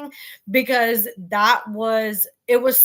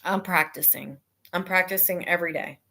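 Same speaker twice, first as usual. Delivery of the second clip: deliberately hushed, testing a softer voice; practicing speaking softer; 4 semitones lower, 5 dB quieter, faster than usual. Shown as a demonstration. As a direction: lower and softer, trying out a quieter voice. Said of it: "figuring out a way to speak softer".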